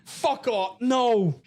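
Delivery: high, loud anguished outburst; real high-pitched frustrated yelling; outraged yell. Real, not acted. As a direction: cry out at the spoiler. Reacting to a spoiler.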